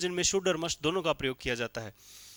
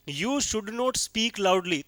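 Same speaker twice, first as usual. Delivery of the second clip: very slow dictation; 3 semitones higher, much slower than usual. Shown as a demonstration. Teacher dictating example sentence.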